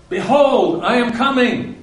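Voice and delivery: high, loud proclamation; proclaiming. Retold or imitated. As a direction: announce it grandly, like a herald.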